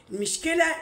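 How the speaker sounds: sudden loud high cry; exclaimed loud and high. Real, not acted. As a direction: burst out with it. Emphatic outburst opening the complaint.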